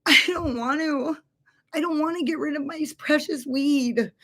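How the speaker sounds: a soft, pitiful mock plea; Puss in Boots plea. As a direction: make big-eyed begging sounds of it. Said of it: "like, Puss in Boots".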